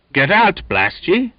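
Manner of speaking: high, loud angry shout. A narrator's reading. Donkin shoving the Finn aside, angry shout. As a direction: bark it at the deaf Finn. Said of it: "shouted the other".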